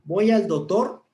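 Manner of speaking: "Voy al doctor" with the c of "doctor" dropped, said "dotor"; sloppy diction. Shown as a demonstration. Teacher demonstrating bad diction, "doctor" said as "dotor". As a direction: slur "doctor" into "dotor", a lazy pronunciation. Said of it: "estoy utilizando una mala dicción".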